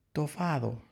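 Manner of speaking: put-on soft, high baby-talk voice; little lamb. A narrator's reading. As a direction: say it like a tiny smiling lamb. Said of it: "dijo la sonriente ovejita". (vocecita tierna de ovejita)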